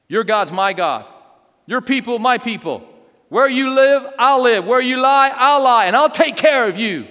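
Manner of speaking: building to a loud, high declaration; impassioned preacher-voiced oath; fervent vow. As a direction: pledge it phrase by phrase, ever stronger. Ruth's vow, acted with force.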